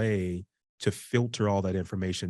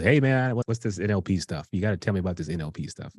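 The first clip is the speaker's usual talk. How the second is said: put-on Tennessee accent; faster than usual. A coach pestering about NLP in a mild Tennessee accent. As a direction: lightly mimic the coach's Southern twang. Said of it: "that's my best Tennessee accent".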